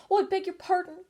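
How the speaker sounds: high, loud hasty apology; hasty cry. A narrator's reading. Alice to the frightened mouse, a hasty high cry. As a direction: blurt the apology out quickly. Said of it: "cried Alice, hastily".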